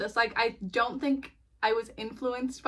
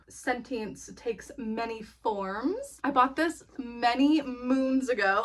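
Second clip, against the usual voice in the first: witch voice; slower than usual. Pretend. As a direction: intone it like an old witch. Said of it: "I started talking like a witch".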